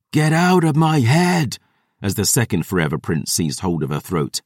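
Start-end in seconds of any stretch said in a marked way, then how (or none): 0.1-1.6 high, anguished roar of protest; shuddering roar. A narrator's reading. Dusk Dancer fighting off a mind invader, shuddering roar. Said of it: "rising into a shuddering roar".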